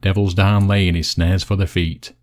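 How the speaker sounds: measured Yorkshire dialect verse; poem recital. Acted. Recites dialect poem after intro.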